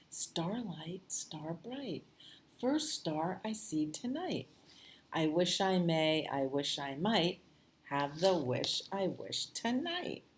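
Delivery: gentle sing-song recital. Acted. Reciting the wishing rhyme.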